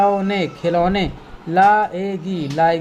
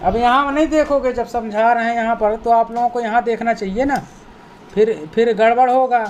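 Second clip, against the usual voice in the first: scolding pupils; 3 semitones higher, much faster than usual. Real, not acted. Teacher scolding inattentive pupils.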